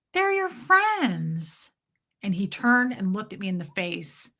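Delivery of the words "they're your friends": gentle reminder. Retold or imitated. Wife gently reminding Fred.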